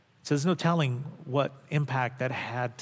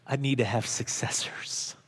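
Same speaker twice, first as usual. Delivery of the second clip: whispered, confiding; whispering. Retold or imitated. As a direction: whisper it like a secret. Mentor's quiet words, hand on shoulder.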